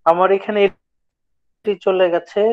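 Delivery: choppy dropping audio; buffering stutter. Real, not acted. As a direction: voice breaking up online. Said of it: "কথা কেটে কেটে আসছে".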